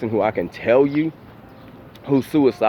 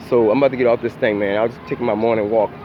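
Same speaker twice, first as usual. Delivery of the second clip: out of breath; faster than usual. Real, not acted. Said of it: "I'm out of breath".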